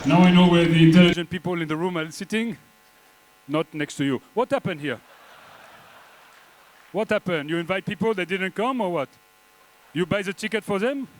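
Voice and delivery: put-on thick comic French accent, vowels and r's Frenchified; fake French accent. Comedian as French coach Jean-Pierre thanks host, in mock French accent. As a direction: play an over-the-top Frenchman mangling English. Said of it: "you can probably tell from my accent".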